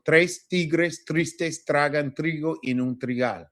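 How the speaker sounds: tres tigres tristes tragan trigo en un trigal, slowly articulated with crisp t sounds; practising T sound. Shown as a demonstration. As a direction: model the tongue twister slowly, each t in tres tigres tristes distinct. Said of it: "we're working on that T sound".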